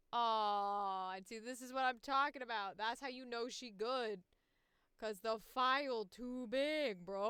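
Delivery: real excited gushing. Real, not acted. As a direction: crow about it, loud and thrilled. Excited outburst at big audio file.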